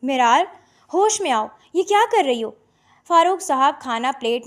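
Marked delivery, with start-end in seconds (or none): 0.0-2.5 father yelling through the door in alarm; alarmed shout. Acted. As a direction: call out to stop her.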